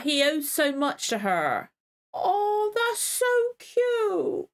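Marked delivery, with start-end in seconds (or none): 2.1-4.5 gushing. Real, not acted. Fan gushing at a sweet moment.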